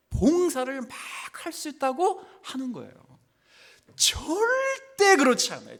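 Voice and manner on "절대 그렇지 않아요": 절대 drawn out long and high; high-pitched, lingering stress on 절대; emphatic denial. Real, not acted. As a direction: stretch 절대 high, then fall away.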